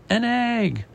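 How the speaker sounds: surprised woman in a high voice; woman's astonishment. Acted. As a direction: echo it high and amazed. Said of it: "The woman says".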